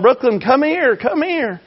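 put-on wife calling the baby girl back across the room. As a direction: call the crawling baby back, high. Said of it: "she's hollering".

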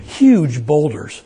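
huge drawn out slowly; stress on huge. Real, not acted. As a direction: stretch out the word huge. Stressing the size of boulders.

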